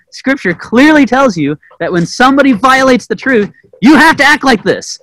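half-mocking rant at the older sister; mock yelling. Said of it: "yelling at this poor older sister".

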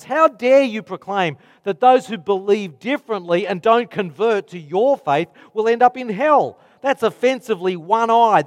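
the world scolding the preacher over hell; voicing critics. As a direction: argue the world's case with scornful heat. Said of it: "Those are the things that our world says".

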